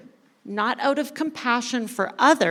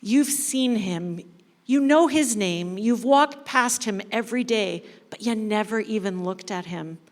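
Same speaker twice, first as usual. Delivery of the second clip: deep sadness. Acted. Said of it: "shakes his head with deep sadness".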